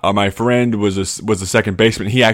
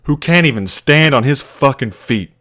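angry coach; 5 semitones higher than usual. Retold or imitated. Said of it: "And he goes".

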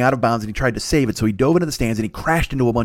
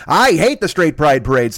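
slow, emphatic proclamation; mock broadcast; 4 dB louder than usual. Everybody broadcasting online, mock proclamation. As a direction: announce it like a public grievance.

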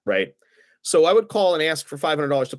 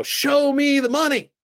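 high, slow, loud movie-line yell; Cuba Gooding Jr. shout; 12 semitones higher, 3 dB louder, slower than usual. Retold or imitated. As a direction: belt the famous line like the film. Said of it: "He demanded that I scream".

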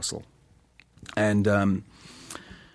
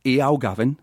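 Geordie accent. Shown as a demonstration. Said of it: "the little phrase is".

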